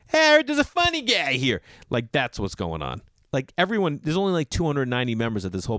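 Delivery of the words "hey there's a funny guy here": high, loud mock announcement of the funny guy; hammed-up gushing manager; excited club manager. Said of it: "He's like".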